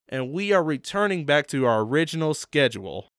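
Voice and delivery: usual speaking voice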